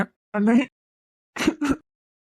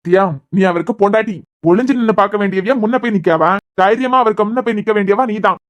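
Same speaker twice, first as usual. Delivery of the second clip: firm urging; 4 dB louder than usual. Acted. Brother urges wife to come in.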